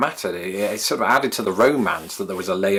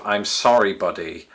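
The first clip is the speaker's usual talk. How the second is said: put-on New York accent. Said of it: "but in a New York accent".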